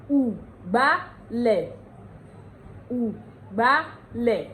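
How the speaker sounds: "ugbálẹ̀" very slowly, syllable by syllable; oo-gba-leh, each part of "ugbálẹ̀" separated; Ondo pronunciation. Shown as a demonstration. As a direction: break "ugbálẹ̀" up for learners. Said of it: "Ondo will say".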